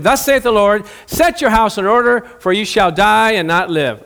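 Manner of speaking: a touch of declaimed divine decree; prophet's pronouncement. Acted. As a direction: proclaim the sentence like a preacher-prophet, easing at the end. Prophet delivers God's sentence to king.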